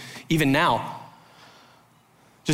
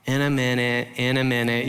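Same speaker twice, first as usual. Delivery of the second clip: stalling; 5 semitones lower than usual. Retold or imitated. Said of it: "I'm doing the, like".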